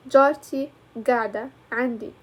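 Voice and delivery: جارتي قاعدة عندي with قاعدة voiced as "gada"; own-accent reading, hard g opening قاعدة; own dialect pronunciation. Shown as a demonstration. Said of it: "in my accent, I will read it like".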